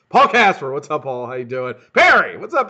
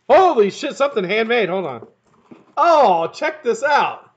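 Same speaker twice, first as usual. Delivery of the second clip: loud, high-pitched amazement; real thrilled exclamations; excited discovery; 9 semitones higher, 9 dB louder than usual. Real, not acted. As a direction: burst out at a surprise find. Opens a surprise handmade gift.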